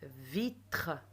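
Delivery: "Vitre" in two beats, vi and tre; "Vitre" modelled syllable by syllable. Shown as a demonstration. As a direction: sound out "Vitre" carefully. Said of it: "je tape les syllabes".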